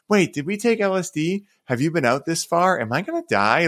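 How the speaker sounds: high, wide-eyed innocent questions, lightly voiced; innocent wonder. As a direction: ask like a wide-open, innocent child. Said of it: "the innocence of".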